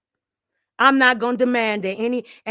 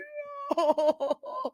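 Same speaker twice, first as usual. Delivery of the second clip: mock crying laugh; 6 semitones higher, 7 dB quieter than usual. Mocking fake victim wail.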